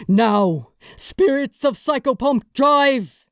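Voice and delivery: rally the troops with a shout; battle shout. Acted. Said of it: "he shouted".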